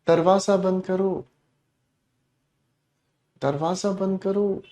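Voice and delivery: quiet, gentle request; soft request. Shown as a demonstration. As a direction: ask softly, not commanding. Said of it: "आपकी tone बदल गई". (धीमी आवाज़ में विनती)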